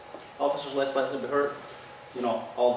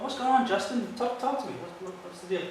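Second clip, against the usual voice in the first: coaxing; 6 semitones higher than usual. Retold or imitated. Officer coaxes agitated man to talk.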